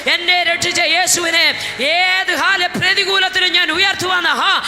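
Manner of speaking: fiery preaching. Acted. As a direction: preach it out to the congregation. Preaching rises again. (ആവേശത്തോടെ ഉച്ചത്തിലുള്ള പ്രസംഗം)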